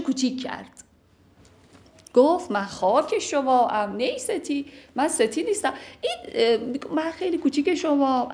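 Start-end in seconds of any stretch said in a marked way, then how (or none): 2.5-8.3 pleading wife. Acted. Teacher voices the wife humbly pleading with angry husband.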